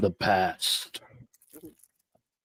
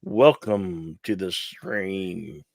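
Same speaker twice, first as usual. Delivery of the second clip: announcer voice. Acted. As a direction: welcome everyone like a show host. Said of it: "I will be the narrator".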